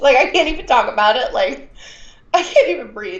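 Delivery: excited, barely able to talk about it; gushing with real excitement; overwhelmed with excitement. Real, not acted. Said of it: "I'm so excited about it".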